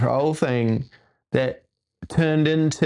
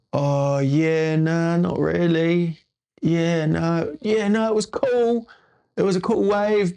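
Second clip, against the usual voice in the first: higher, hedging yeah-no, half-hearted; lightly voiced grumpy agreement; mock reluctant self; 5 semitones higher than usual. Telling Ben the wave was only sort of cool, lightly raised. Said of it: "And I'm like".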